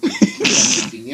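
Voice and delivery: very high, slow squeaky puppet voice; drawn-out squeak like a dummy; squeaky ventriloquist dummy. Pretend. Ventriloquist shows his puppet.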